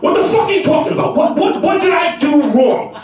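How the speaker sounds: high-pitched, rapid indignant protest; imitating himself all worked up. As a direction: stammer out a frantic self-defence. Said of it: "And I'm like this".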